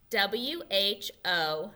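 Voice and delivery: slow letter by letter W, H, O; spelling along. Shown as a demonstration. Teacher spelling along slowly with children. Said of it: "Can you spell it with me?".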